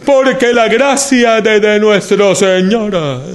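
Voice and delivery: "Porque la gracia" drawn out slowly, every sound exaggerated; overpronounced preaching. Shown as a demonstration. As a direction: overarticulate "nuestro Señor" in a put-on preacher voice. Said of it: "a veces sobrepronunciamos".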